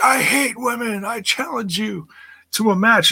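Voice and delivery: a hammed-up high imitation of a sore loser; mocking Spud. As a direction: lampoon him in a squeaky put-on voice. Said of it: "So he's like".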